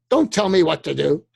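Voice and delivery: loud, huffy don't-tell-me; mock defiant man. Man snapping back at being told what to do, mock defiant. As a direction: bristle like a man being bossed.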